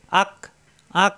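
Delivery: আক with the K just forward of the tongue root. Shown as a demonstration. Teacher showing learners the kaf in আক, tongue-root K. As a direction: end আক on a K made slightly ahead of the tongue's root. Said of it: "জিব্বার গোড়া থেকে একটু আগে বাড়িয়ে".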